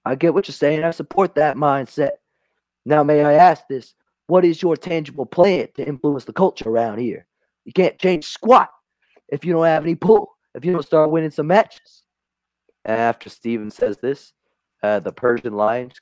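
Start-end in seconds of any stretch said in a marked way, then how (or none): 0.1-12.0 a touch higher, challenging host; lightly voiced sports host; Stephen A. Smith. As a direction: press him like a pushy interviewer. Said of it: "And Stephen says".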